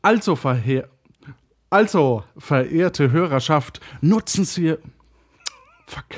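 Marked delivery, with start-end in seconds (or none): none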